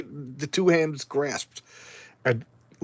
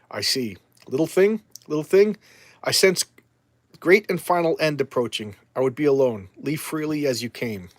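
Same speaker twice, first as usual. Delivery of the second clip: darkness entity. Acted. Ancient darkness greeting Swamp Thing, grand and lightly voiced. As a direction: speak down to a small visitor like an ancient power.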